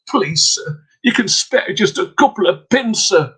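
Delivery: put-on high pleading young girl; begging girl. Girl pleading with peddler, high begging voice. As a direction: beg him sweetly for a few pins. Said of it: "she begged of him".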